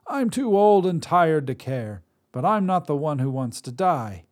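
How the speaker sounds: put-on high, loud cranky old woman; old Drea. Old witch scolds the god who ruined dinner, high and loud. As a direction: snap at him like a crotchety crone.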